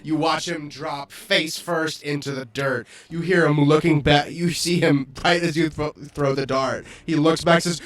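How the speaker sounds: punchy, emphatic game master narrating a kill; game master narration. Acted. Game master describing the player's dart kill, dramatic narration. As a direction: narrate the fatal hit with relish.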